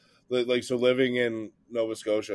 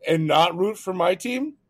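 mock hostile fan; 8 semitones higher, 4 dB louder than usual. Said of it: "they have such a reputation".

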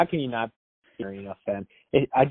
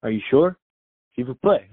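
put-on louder, playful French-accented plea; mock French accent; 6 dB louder than usual. Barber pleading with the French player, in mock French accent. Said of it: "in French, but he'd say".

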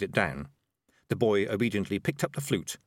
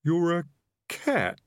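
higher-pitched, halting realisation; dazed mumble; 9 semitones higher, slower than usual. Acted. Highwayman realising who is talking to him, halting mumble. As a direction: break off before the last word, stunned. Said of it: "he mumbled".

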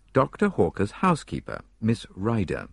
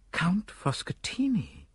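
startled doctor; 13 semitones higher, 4 dB quieter, slower than usual. Acted.

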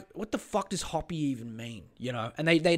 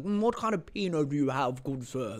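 mock wine snob. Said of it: "wine snobs that would come and be like".

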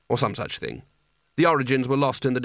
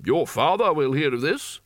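severe; 2 semitones higher than usual. A narrator's reading. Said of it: "said Spelter severely".

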